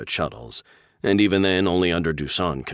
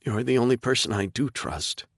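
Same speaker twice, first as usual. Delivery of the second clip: put-on young woman; 7 semitones higher than usual. Sarah answers Chris.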